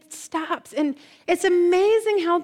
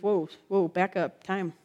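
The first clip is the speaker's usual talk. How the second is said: hushed, low and soothing; quiet, calming murmur, much softer; gentle whisper; 6 semitones lower, 6 dB quieter than usual. Acted. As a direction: softly halt someone who is panicking. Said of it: "when Jesus whispers your name and says".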